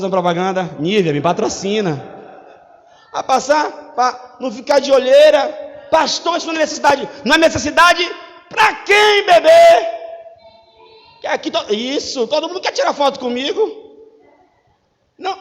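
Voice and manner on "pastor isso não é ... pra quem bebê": a lightly shouted protest, rising higher; mock objection. Church member protesting to the pastor, mock indignant. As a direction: throw it back at the pastor, indignant. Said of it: "imagined church member objecting".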